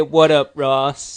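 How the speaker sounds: put-on a lightly done Irish accent; a hint of Irish, loud and playful; bad Irish accent. Lee greeting a fan's brother in bad Irish accent. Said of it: "That was a bad Irish accent".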